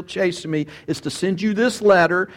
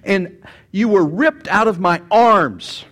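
slow and tender, a little louder, like a grieving father; tender Paul; 4 semitones higher, 3 dB louder, slower than usual. Acted. Preacher voicing Paul to the church, slow heartfelt longing. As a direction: plead like a father robbed of his children. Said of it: "Paul says".

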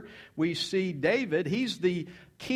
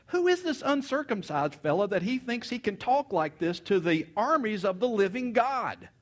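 higher-pitched mock indignation; indignant challenge; 4 semitones higher than usual. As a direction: act out an offended young challenger. Young David indignant at giant's challenge.

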